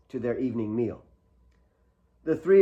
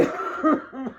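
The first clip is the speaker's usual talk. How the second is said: coughing fit; 12 semitones higher than usual. Acted. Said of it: "his body racked with a coughing fit".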